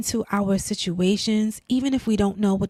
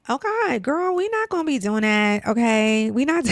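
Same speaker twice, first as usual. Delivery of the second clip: holding back tears; 3 semitones higher than usual. Real, not acted. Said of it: "I'm getting, like, really emotional".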